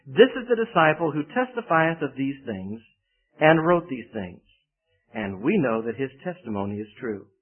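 measured reading of the Bible passage; preacher reading verses to the congregation, solemn; scripture reading. Acted. Reads scripture aloud.

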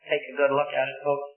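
calm, unafraid quoted reply; measured, composed acted speech. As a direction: answer the threat with composure. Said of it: "says very calmly".

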